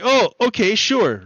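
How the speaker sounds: high, eager agreeable reply; naive Abel. Retold or imitated. Abel answering his brother Cain, high and eager. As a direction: chirp it out like a trusting kid brother. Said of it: "Abel's like".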